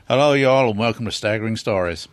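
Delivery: attempted American accent. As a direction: have a go at a folksy American accent. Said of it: "your impression of an American accent".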